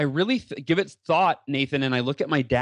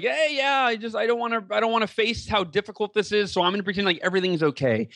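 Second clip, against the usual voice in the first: light, higher, breezy voice that shrugs it all off; carefree checked-out voice; 6 semitones higher than usual. Retold or imitated. Doctors imitating a patient in denial, breezy and carefree. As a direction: play the patient pretending all is fine. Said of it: "he's checked out and he's just like".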